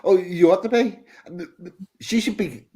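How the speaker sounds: laughing through a teasing jab. Real, not acted. Laughing as he teases his co-host about being offended. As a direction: chuckle the words out while ribbing him.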